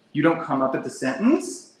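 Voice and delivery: upspeak. Shown as a demonstration. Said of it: "like this".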